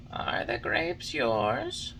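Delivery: slow, questioning glowworm; a gentle creature checking on him. A narrator's reading.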